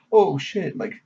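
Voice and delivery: slow, breathless whisper of disbelief; shocked whisper. Retold or imitated. Retelling Light seeing the criminal die, hushed disbelief. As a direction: whisper it as if you can't believe it.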